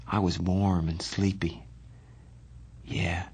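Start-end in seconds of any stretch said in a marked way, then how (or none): 2.9-3.2 quiet. Acted. Johnny answering his friend late at night, quietly. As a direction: answer softly in the dark. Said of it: "he said quietly".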